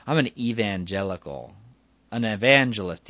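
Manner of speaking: lightly imitated Southern evangelist; southern accent. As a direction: announce it with a touch of Southern twang. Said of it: "He has this southern accent".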